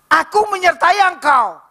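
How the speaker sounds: high, slow, solemn declaration; voice of God. Acted. Preacher voicing God's promise, slow and high. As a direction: proclaim it slowly and grandly. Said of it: "Tuhan katakan".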